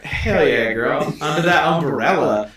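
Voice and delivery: lightly imitated Caribbean pop singer, slowed; drawn-out mock impression with a laugh; a pop singer. Joking to his co-host about how the stranger talks, lightly mimicked Caribbean singer. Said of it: "think of a singer, like a man's version of her".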